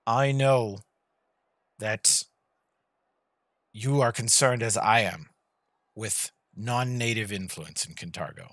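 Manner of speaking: slow, measured, lightly voiced ruler's speech; a silky tyrant soothing the city; lord addressing crowd. Lord soothes the crowd of Kintargo, calm and slow.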